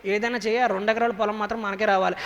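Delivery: hushed scheming aside to the son-in-law; a greedy wife murmuring to her son-in-law; sly aside. Retold or imitated. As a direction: whisper it sideways, conspiratorial. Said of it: "అని చెప్పి".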